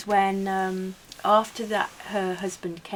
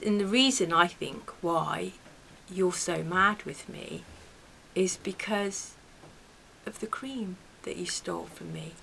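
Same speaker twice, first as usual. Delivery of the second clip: calm and quiet; 3 semitones lower, 7 dB quieter than usual. Retold or imitated. Confronting the neighbour about stolen cream, calm hushed voice. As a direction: lay the accusation down quietly, no heat. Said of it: "And I was so calm".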